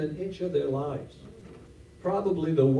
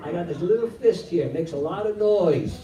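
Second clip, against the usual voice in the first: defiant widow. Retold or imitated. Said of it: "her attitude was like".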